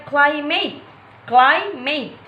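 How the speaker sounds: "climate" with the weight on CLI; stress on first syllable. Shown as a demonstration. Teacher showing first-syllable stress to viewers, CLImate stressed up front. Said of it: "primary stress on first syllable".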